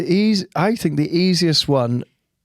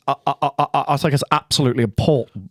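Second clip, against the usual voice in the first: Keir Starmer impression; faster than usual. Shown as a demonstration. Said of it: "as though he says".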